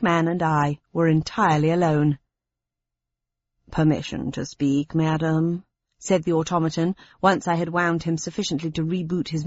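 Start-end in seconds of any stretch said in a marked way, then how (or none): 3.7-5.6 plummy butler. Acted. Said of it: "rich, plummy tones of the perfect gentleman's gentleman".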